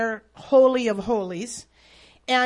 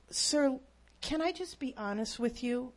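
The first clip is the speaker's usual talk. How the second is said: much softer, gentle approach; 7 dB quieter than usual. Retold or imitated. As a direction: ease into it softly, gently. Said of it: "I was trying to be really gentle".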